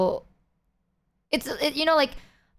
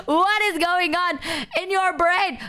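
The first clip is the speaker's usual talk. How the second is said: incredulous teasing; 8 semitones higher than usual. Real, not acted. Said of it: "teasing friend".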